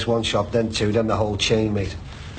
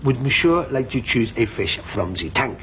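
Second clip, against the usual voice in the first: put-on French accent; slower than usual. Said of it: "Because he's French".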